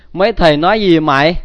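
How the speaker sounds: quick, loud retold question; mock loud, hurried asking; imitating loud old woman. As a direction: blurt it like someone hard of hearing. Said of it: "cụ bà nói rất là lớn tiếng".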